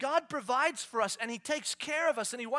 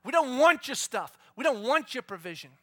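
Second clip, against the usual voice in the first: complaining people; 4 semitones higher, 13 dB louder than usual. Retold or imitated. People to God, loud whiny refusal. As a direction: whine back at God. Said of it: "the people came to God and said".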